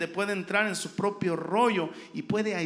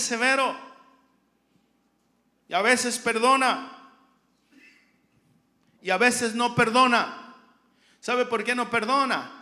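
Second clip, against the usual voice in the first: loud, driving sermon delivery; raised pulpit voice, exhorting the congregation; full-force preaching; 3 semitones higher, 7 dB louder than usual. Real, not acted. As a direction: preach it out hard, phrase on phrase.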